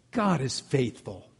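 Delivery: slow, sugary churchy tone; mock the overly sweet way people say it; syrupy piety. Imitating a churchgoer at a fellowship dinner, syrupy and slow. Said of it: "the tone of voice that sounds just a little bit too syrupy".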